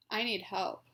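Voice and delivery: strong voice, each word deliberate and intonated; deliberate, with intent. Shown as a demonstration. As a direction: model phrases clearly for someone to repeat. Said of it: "make sure you're saying each word, um, deliberately".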